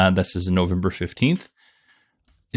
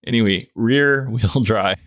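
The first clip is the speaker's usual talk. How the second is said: retry with a giggle; 2 semitones higher than usual. Real, not acted. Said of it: "words are so hard".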